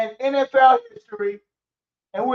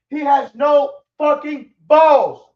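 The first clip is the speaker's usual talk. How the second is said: angry slow outburst; 2 semitones higher, 7 dB louder, slower than usual. Real, not acted. Angry rant about quarterback.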